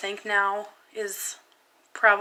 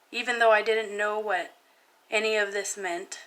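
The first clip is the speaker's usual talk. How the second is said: measured, confessional spoken-word reading; personal poem reading. Real, not acted. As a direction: recite your own painful poem, pausing between phrases. Reads own poem aloud.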